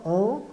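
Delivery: "an" nasal, as in "maçã"; nasal vowel. Shown as a demonstration. Teacher compares with maçã, "an" as a nasal vowel. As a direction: say "an" like the ã ending "maçã". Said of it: "tem som de an de maçã".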